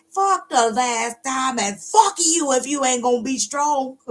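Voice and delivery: high, drawn-out mock rant; hammed-up exasperation. Fed-up elder answering the whiner, exasperated.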